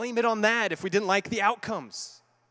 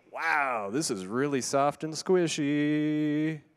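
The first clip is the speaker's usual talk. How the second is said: mock skeptical audience; 5 semitones lower, slower than usual. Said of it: "some of you are thinking".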